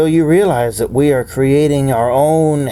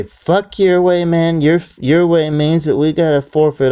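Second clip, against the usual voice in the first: defiant high; 5 semitones higher than usual. Acted.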